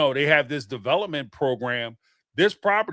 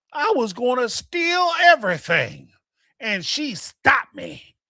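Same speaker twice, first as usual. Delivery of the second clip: mock Robin; 9 semitones higher, 3 dB louder, slower than usual. Voices Robin's confession.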